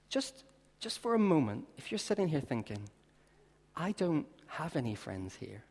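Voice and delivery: soft, reassuring appeal. Acted. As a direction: speak gently to the newcomer.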